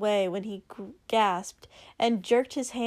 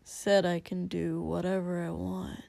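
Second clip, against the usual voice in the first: obstinate; 4 semitones lower, 5 dB quieter than usual. Acted. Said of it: "protested a little obstinately".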